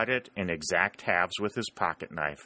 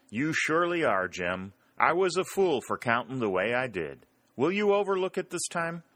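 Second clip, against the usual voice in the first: higher, lightly voiced mock contrition; mock apology; 6 semitones higher than usual. Bill apologizing to Jim in jest, mock sheepish. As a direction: play along sheepishly.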